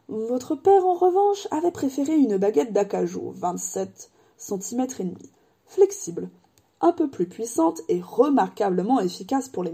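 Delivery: lightly voiced, wistful old wandmaker; a hint of an old craftsman remembering. Ollivander remembers Harry's mother, lightly voiced old man.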